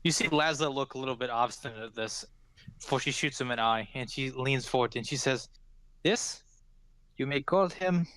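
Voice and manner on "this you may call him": Cloudy's voice. Acted.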